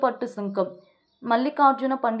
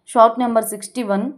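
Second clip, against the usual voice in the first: loud quick announcement; 7 dB louder, faster than usual. Real, not acted. Announcing next quiz item.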